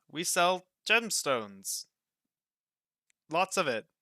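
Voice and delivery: high, loud and slow proud sales pitch; eager high voice. Acted. Roka proudly tells customers what the shop sells, high. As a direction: boast about the stock, thrilled.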